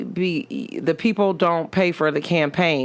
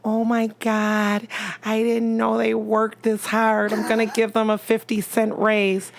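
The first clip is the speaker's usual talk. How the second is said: mock tearful; 6 semitones higher than usual. Podcast guest mimicking CEOs on Undercover Boss, mock tearful. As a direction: imitate a teary boss, stretched and high. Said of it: "always, like, in tears".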